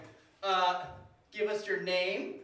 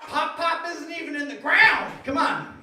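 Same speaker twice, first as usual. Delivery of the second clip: indignant shout, louder and higher; angry grandpa; 7 semitones higher, 7 dB louder than usual. Retold or imitated. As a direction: scold as a furious grandpa. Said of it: "you know what he'd say".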